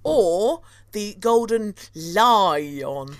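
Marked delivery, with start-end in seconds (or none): 1.9-3.1 "Lion" stretched slowly into two syllables, LIE-ON; drawn-out Lion. Pretend. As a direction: make a meal of "Lion", as if spelled Lyon. Playing on the old spelling Lyon.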